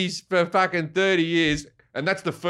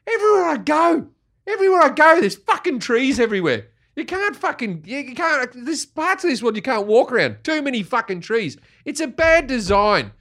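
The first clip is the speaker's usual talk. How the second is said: higher, hammed-up exasperated rant; mock rant; 8 semitones higher than usual. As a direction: play it as a petty outraged complaint. Comic rant about too many trees.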